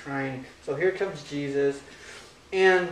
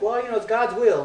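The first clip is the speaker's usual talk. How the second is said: lightly imitated preacher, higher and louder; mock preacher; 7 semitones higher, 7 dB louder than usual. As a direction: brush it off as a preacher excusing himself. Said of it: "sounds like one of those preachers".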